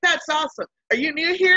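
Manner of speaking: high, loud, bouncy chatter; bubbly excitement. Retold or imitated. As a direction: gush like an energetic newcomer greeter. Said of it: "And she was like".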